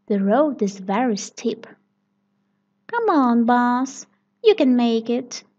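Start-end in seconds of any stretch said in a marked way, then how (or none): 2.9-5.4 loud encouraging cheer. Acted. Children cheering the bus up the steep road, loudly. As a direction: urge the bus up the hill. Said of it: "everyone cheers".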